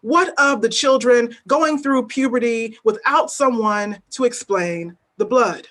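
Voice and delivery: deliberate, weighty spoken-word recitation; a poet performing at a reading; spoken word poem. Acted. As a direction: lay each image down slowly, letting the refrain land. Reads her poem aloud.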